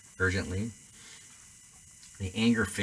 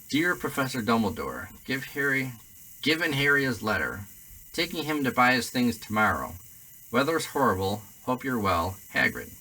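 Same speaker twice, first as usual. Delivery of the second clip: loud, rough half-giant; big hearty gamekeeper voice; Hagrid voice; 5 semitones higher, 4 dB louder than usual. Acted. Hagrid reads his note aloud.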